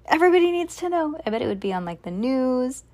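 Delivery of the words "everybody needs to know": excited podcaster. Pretend. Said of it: "I'd be like".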